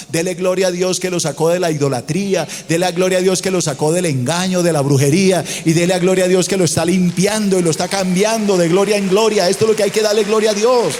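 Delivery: a growing call to give glory to God; fiery preaching. Acted. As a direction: build the praise until it bursts out. Preaching builds to a loud climax.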